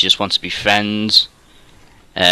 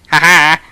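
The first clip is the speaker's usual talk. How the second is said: louder, higher "ha ha"; short forced laugh; 6 semitones higher, 5 dB louder than usual. Real, not acted. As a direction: let out a brief, put-on laugh. Jokes that she may be watching.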